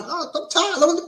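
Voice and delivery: mock tired whine. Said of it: "And I'm the one".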